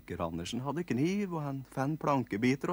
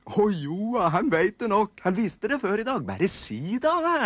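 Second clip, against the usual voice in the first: put-on higher, louder teasing kid voices; coaxing nisse kids; 11 semitones higher, 8 dB louder than usual. Siblings urging the shy little brother to speak, high loud. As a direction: egg him on like pushy little siblings.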